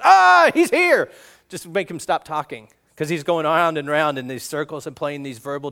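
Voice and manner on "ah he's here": high, slow, loud blurted outburst; exasperated little pig shouting the answer; losing his mind. Retold or imitated. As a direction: snap and blurt it out to make it stop. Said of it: "loses his mind and says".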